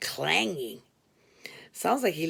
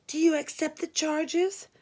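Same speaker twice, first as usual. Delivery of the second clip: higher, routine operator question; 8 semitones higher than usual. Retold or imitated. Operator asking the narrator to accept the charges, higher. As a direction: ask it like a weary switchboard operator. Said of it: "the operator asked".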